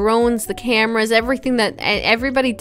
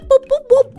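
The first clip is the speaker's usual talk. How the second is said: high, louder beep-boop noises; imitated keypad beeps; 13 semitones higher, 5 dB louder than usual. Pretending to be a journalist typing a code, high beeping boops. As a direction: tap in the secret code with your voice. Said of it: "And I go beep".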